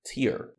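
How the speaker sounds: "tear" rhyming with "ear"; "tear" with an "ee" vowel, the noun; noun pronunciation. Shown as a demonstration. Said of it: "a pronúncia vai ser". ("tear" com som de i, o substantivo)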